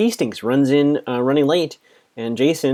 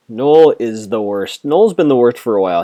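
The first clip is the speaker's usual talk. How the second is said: emphatic; 7 dB louder than usual. Real, not acted. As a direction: lean hard into every word. Ranting about a character.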